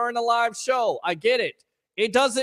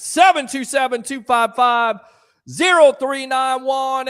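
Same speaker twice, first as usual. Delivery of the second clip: loud number call; 2 semitones higher, 6 dB louder than usual. Real, not acted. Host calling out the phone number to viewers. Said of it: "It's seven two seven two five".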